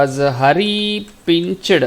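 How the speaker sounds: drawn out while writing; slow dictation. Shown as a demonstration. Teacher writes the answer for the class, slow dictation. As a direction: stretch the words as you write them.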